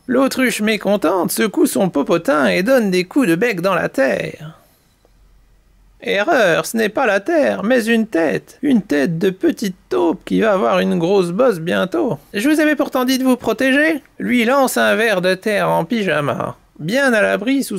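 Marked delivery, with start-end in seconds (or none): 0.1-12.2 animated, expressive storyteller; children's story narration. A narrator's reading. Mamie Poule tells chicks the canary's tale, lively narration. 12.3-14.0 high, quick little reproving voice; reproving earthworm. Acted. Earthworm lectures the mole, quick higher reproof.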